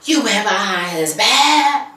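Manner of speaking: slow, put-on gossip voice; mock scandalized gossip. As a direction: savor the drama, drawn out. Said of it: "she's like".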